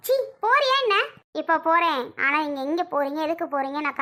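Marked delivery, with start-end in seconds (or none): 0.1-1.0 higher, contemptuous "சீ"; scornful shooing; scornful dismissal. Acted. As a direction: spit it out in disgust. Scornfully sending her off.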